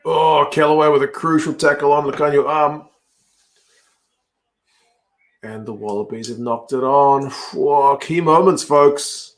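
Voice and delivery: lively play-by-play call; live rugby commentary. Real, not acted. Commentator reacting to crucial tackle and knock-on, live play-by-play. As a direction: call the big moments to the listeners.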